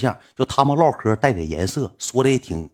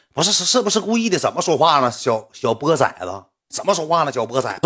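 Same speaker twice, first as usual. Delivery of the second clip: mildly heated mock scolding, higher at the start; retold angry comeback; indignant retort; 4 semitones higher than usual. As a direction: act out an offended guy telling someone off. Acted angry retort to apology.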